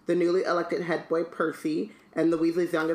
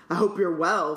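pompous. Acted. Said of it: "said Percy pompously".

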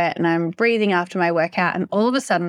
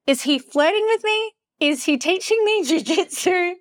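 giddy disbelief; 9 semitones higher than usual. Retold or imitated. Inner thought, giddy disbelief.

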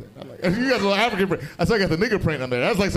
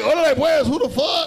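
mock Mexican slang; 6 semitones higher, 3 dB louder than usual. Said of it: "I like".

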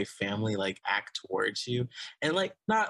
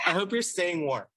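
laughing; 8 semitones higher, 4 dB louder than usual. Real, not acted. Laughing greeting to listener.

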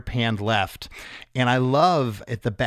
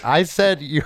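raised start that collapses into laughter; straight face failing; 4 semitones higher, 3 dB louder than usual. Real, not acted. Host retrying the rude lyric, straight face failing. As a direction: try to keep serious and crack up. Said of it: "try to say it with a straight face".

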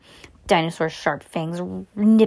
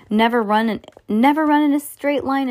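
urgent yell, louder; 6 semitones higher, 4 dB louder than usual. A narrator's reading. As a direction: shout the rule while running. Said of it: "Antonio yelled".

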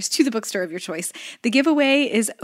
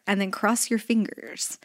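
whispered aside; 6 dB quieter than usual. Acted. Playful aside in ad read.

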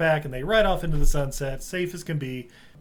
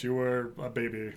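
mock Christian Bale; 4 semitones lower, 7 dB quieter than usual. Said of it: "I don't know why I'm doing that accent. It's Christian Bale".

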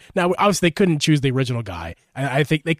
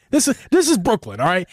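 put-on high-pitched Brooklyn accent; 4 semitones higher than usual. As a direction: lay on a thick Brooklyn accent. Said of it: "let's do a Brooklyn".

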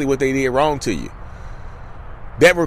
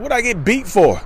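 put-on higher, startled child's protest; mock kid protest; 7 semitones higher than usual. Kid asking the dad why he was beaten, startled. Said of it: "You're like".

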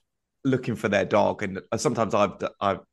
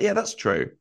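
high agreement; 8 semitones higher, slower than usual. Retold or imitated. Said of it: "I was like".

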